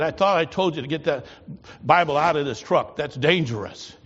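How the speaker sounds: angry scolding. Retold or imitated. Colonel berating the driver over the Bible, angry. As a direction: scold him for disobeying orders.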